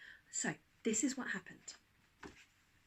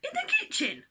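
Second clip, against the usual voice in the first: high, loud amused dad; mock disbelief; 7 dB louder than usual. A narrator's reading. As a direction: scoff at the idea. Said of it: "said Dad".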